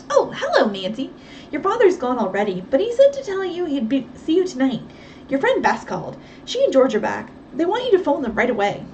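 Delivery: a housekeeper bursting with news; Effie, chatty housekeeper. Acted. Housekeeper Effie chattering to Nancy.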